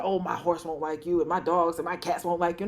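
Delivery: a hint of a grumbling man; grumpy guy. Grumpy guy warning a girl off his animals, lightly grumbling. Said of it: "when a guy's so grumpy".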